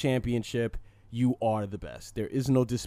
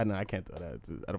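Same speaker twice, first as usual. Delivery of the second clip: ordinary delivery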